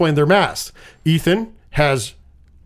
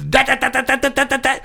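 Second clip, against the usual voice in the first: knife slash sounds; 8 semitones higher than usual. Retold or imitated. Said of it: "she fucking just".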